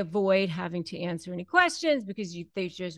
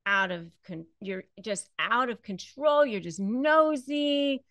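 raging partner; 5 dB louder than usual. Retold or imitated. Narcissist raging at a partner who asks about charges, loud furious rant. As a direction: lash out at the one asking questions. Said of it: "just rage at you".

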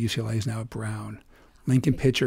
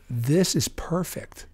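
slow, drawn-out gleeful plotting; mischievous slow aside; sly scheming; 5 semitones higher, much slower than usual. Retold or imitated. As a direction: savor the idea. Scheming inner thought.

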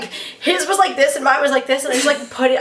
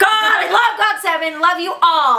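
excited fan shout; 5 semitones higher than usual. Real, not acted. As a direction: cheer it out for the band. Fan gushing about her idols.

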